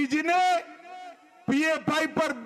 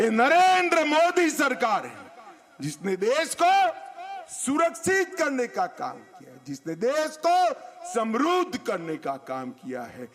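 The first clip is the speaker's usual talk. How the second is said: booming political rally speech; 4 semitones higher than usual. Real, not acted. Rally boast to crowd.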